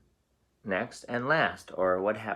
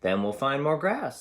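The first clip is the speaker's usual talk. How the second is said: big goat; 6 semitones higher, 4 dB louder than usual. Acted. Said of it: "said Big Billy Goat Gruff".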